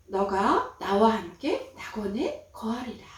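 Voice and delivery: slow, gentle promise; a slow, gentle reply to the repentant robber; Jesus promising. Acted. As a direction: say it slowly and kindly. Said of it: "그렇게 예수님은 말씀하셨어요".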